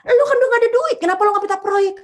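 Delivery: incredulous high, loud retort. Retold or imitated. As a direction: throw the question back in disbelief. Friends pestering her about projects.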